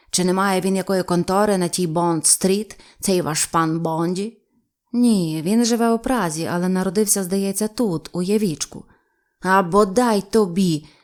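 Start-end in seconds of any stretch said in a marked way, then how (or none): 9.4-10.8 delighted, joyful outcry. Reading a novel, the captain recognizes the name Bondy: joyful exclamation. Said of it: "радісно вигукнув капітан".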